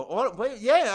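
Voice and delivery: rising surprised "yeah". Retold or imitated. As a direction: caught off guard, voice jumps up. Surprised at autograph request.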